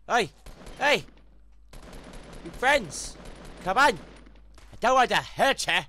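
high, loud fake-friendly call; taunting enemy with fake friendliness; mock friendly taunt. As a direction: lure them with false kindness.

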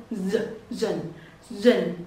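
final syllable of "television" alone, "dần", dropped low; âm cuối. Shown as a demonstration. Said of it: "Nhớ âm cuối d". (đọc riêng âm cuối "dần", hạ giọng)

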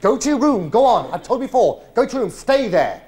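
loud commanding father; stern shouted order. Retold or imitated. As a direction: bark the order at a child. Father ordering son away.

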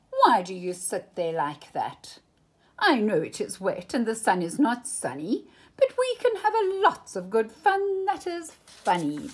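lively cat voice climbing high at the end; a cheeky visitor coaxing the kids; the Cat in the Hat. Acted. Cat coaxes bored children into fun, lively voice.

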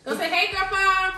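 high, singsong greeting prompt. Real, not acted. Mother prompting her little boy to greet Grandpa, coaxing. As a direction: lift it high for a little one.

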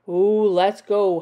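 loud mild werewolf howl. A narrator's reading. Werewolf urging the others on, howling. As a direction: stretch the ooh like a small howl. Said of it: "howled the werewolf".

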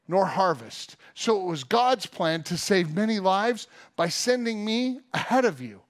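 lightly acted, earnest proclamation; Joseph to his brothers. Joseph reveals himself to his brothers, earnest acted declaration. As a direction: preach it as an earnest, emphatic first-person speech. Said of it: "he said these words".

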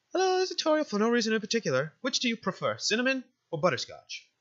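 politely lilting motherly caller; motherly game guardian. Acted. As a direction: ask cheerily as a doting guardian.

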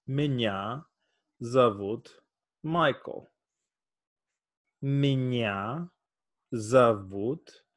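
Меня зовут Майкл said slowly, Майкл stressed and falling; careful phrase drill; slow Russian demo. Shown as a demonstration. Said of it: "My name is Michael".

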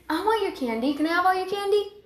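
put-on high begging child's voice; whiny kid voice. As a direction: plead for candy like a greedy little kid.

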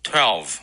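twelve ending on a buzzed v; twelve with a voiced v. Shown as a demonstration. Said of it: "连起来就是".

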